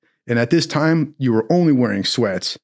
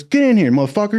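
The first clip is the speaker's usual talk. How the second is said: higher, hard-called summons; barking chief; 8 semitones higher, faster than usual. Retold or imitated. Navy chief calling the recruit into his office, barking. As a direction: call him in like a gruff chief. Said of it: "He goes".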